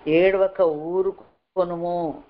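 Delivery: very slow, drawn-out quotation; slow, weighty scripture quote; God's word quoted. Retold or imitated. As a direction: stretch each word out deliberately. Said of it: "దేవుడు చెప్తున్న మాట".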